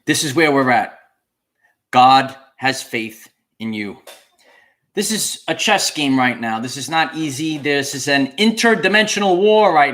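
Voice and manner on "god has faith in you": slow, low, spaced-out words with weight on GOD; emphatic declaration. Real, not acted. Streamer telling listeners where we're at, emphatic declaration. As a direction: press each phrase home, pausing between. Returns to key line emphatically.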